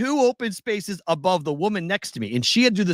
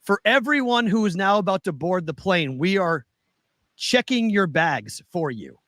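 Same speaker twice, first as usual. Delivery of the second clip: imitated loudspeaker announcement; 3 semitones higher than usual. Traveler retelling what the airline loudspeaker said, lightly mimicked announcement. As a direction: mimic a measured gate announcement. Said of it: "the loudspeaker comes on and says".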